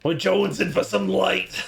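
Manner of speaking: raspy smoker's voice; chainsmoker voice. Acted. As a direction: rasp it like a heavy smoker. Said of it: "That's like my Chainsmoker voice".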